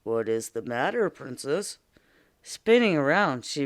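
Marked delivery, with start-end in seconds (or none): 0.0-1.8 a hint of a timid, scratchy little frog; lightly voiced shy frog asking. Frog gently asks the crying princess in a lightly timid voice. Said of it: "a timid, scratchy voice".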